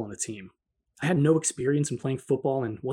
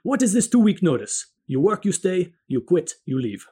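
loud, emphatic imitated Italian accent, higher; thick Italian accent; 3 semitones higher, 5 dB louder than usual. Restaurant manager to busboy handing in notice, loud emphatic Italian accent. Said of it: "In his thick Italian accent, he emphatically exclaimed".

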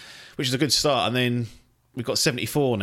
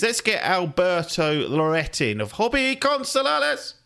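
put-on higher, slow, rolling Spanish accent; 8 semitones higher than usual. Reading a Spanish reviewer's name to co-host, put-on Spanish accent. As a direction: announce it in a hammed-up Spanish accent. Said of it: "'cause of the accent".

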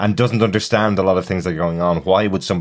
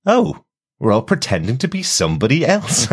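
Elnor's naive realization; 8 semitones higher, 3 dB louder than usual. Retold or imitated. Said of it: "when he realizes what's going on and goes".

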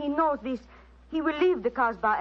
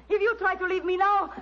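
threat climbing higher and higher; menacing threat; 9 semitones higher than usual. Acted. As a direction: warn him you will kill him. Jealous woman threatens with knife.

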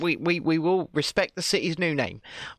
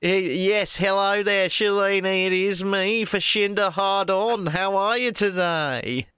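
lightly put-on Jacinda impression; stuffy, nasal Jacinda parody; mock Jacinda voice; 2 semitones higher than usual. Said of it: "I sound like I've got a cold".

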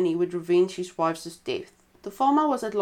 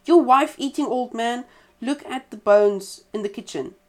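loud jeering cry, pitched up; mocking cry; 4 semitones higher, 6 dB louder than usual. A narrator's reading. Badger taunts the old farmer, loud mocking cry. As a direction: crow it out triumphantly to the farmer. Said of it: "cried out".

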